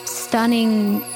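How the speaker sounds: normal talking voice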